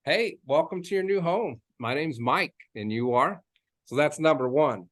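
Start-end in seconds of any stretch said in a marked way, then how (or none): 0.0-3.4 welcoming greeting. Shown as a demonstration. Realtor greeting buyers at the open house, welcoming. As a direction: greet them like an air hug. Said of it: "like a hug without hugging them".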